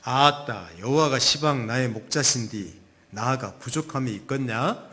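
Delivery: Jeolla dialect psalm with an emphatic opening; Jeolla accent. Acted. Preacher shares a dialect psalm with congregation, Jeolla accent. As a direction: recite it as a Jeolla local would. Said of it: "또 전라도 버전이 있습니다".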